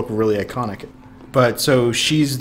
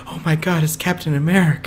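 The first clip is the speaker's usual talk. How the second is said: higher-pitched mock awe; acted starstruck quote; 5 semitones higher than usual. Co-host retelling the van scene, playing mildly starstruck. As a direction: imitate a starstruck fan, pitch lifted. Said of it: "he's like".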